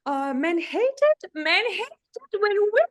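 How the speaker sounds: high, loud, grating; shrill it up to annoy; annoying high pitch. Shown as a demonstration. Coach imitating an annoying high-pitched woman, loud. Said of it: "That's me being annoying".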